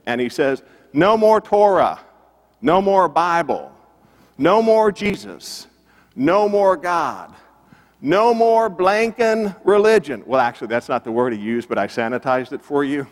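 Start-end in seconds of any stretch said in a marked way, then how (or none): 0.9-10.2 imitating a boss's yell, high-pitched, phrase by phrase; retold yelling. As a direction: hammer out each demand like an angry record executive. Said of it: "he's yelling at a singer".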